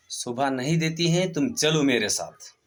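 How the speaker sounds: storyteller voicing an insistent king; commanding rebuke. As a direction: rebuke firmly, then give the order. King scolds and orders Babbar.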